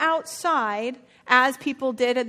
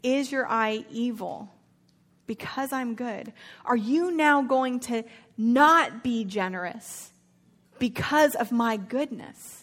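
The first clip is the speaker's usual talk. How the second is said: slow emphatic reading; slower than usual. Shown as a demonstration. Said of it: "the language here is great".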